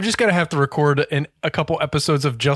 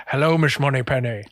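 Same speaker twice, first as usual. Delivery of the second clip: Sean Connery impression; 2 semitones lower than usual. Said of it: "the ghost of Sean Connery got in me".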